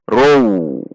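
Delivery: "row" said with a W glide in place of the L; drawn-out "row", L turned into w; wrong pronunciation demo. Shown as a demonstration. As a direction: show the common mistake, "row" ending in a drawn-out w. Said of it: "kesalahan yang sering terjadi".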